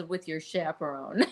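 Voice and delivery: laughing through the quote. Retold or imitated. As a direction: giggle while quoting the host. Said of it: "I think he even says".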